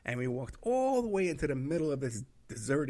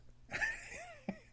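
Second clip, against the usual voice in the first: breathy laugh; 7 dB quieter than usual. Real, not acted. Laughs after clerk's answer.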